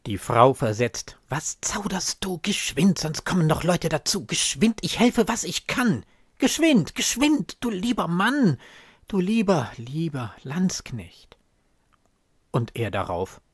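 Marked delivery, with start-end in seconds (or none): 1.3-2.4 urgent whisper. Acted. Widow urges in secret. 2.4-9.7 frantic urging. Acted. Widow urges haste. 9.8-11.4 whispered. Acted. Widow ends urging.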